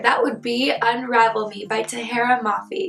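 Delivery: hoarse, husky sick voice; talking through a sore throat. Real, not acted. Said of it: "in my sick voice today".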